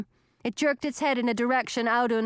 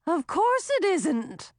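hurried sea monster; 7 semitones higher, slower than usual. Acted. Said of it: "the monster hurried to say".

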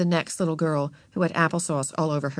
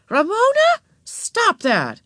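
mother cutting off a tantrum; sharp reprimand; 4 dB louder, slower than usual. A narrator's reading. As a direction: call out and scold.

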